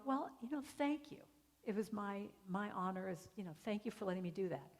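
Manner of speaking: soft, sincere retold gratitude; hushed, heartfelt reply; gentle thanks. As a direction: answer her tenderly and humbly. Grateful reply to softened woman.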